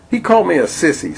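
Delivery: put-on whiny child. Billy complains.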